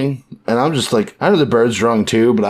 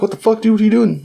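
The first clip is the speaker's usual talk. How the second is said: higher, alarmed what-the-heck; startled outburst; 12 semitones higher, faster than usual. Retold or imitated. Friends shocked as Luffy drops from the sky, high-pitched. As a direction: caught off guard by a friend crashing in.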